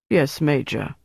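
mildly deflated acknowledgement; obey, a touch let down; disappointed. A narrator's reading. Sergeant is told to stop by major, disappointed. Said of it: "Becker sounded disappointed".

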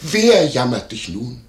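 high at first, then slowing; imitated lady's appeal. Landlord imitating the lady calling her maid in, mock appeal. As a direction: mimic her urgent, drawn-out appeal. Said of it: "da kehrte sie sich nochmals nach mir um".

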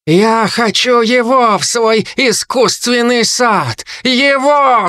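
high, slow, hungry harpy voice; greedy harpy. Acted. Harpy Kai demands the boy for her garden, high greedy harpy voice. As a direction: stretch every word with craving.

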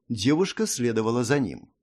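plain reading voice

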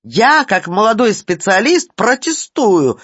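high, loud, spluttering protest; choking with rage. A narrator's reading. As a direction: splutter it out in a frenzy. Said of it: "захлёбывался Ситечкин".

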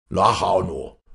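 loud scolding from a father; angry shout. A narrator's reading. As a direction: shout it at a laughing daughter. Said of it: "schrie Stromminger".

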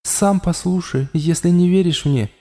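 matter-of-fact inside his head; calm inner voice. A narrator's reading. The voice in Raul's head calmly informs him.

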